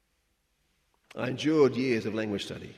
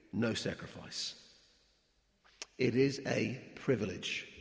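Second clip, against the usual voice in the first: 1 reading a quotation. Acted. Reads Livingstone quotation.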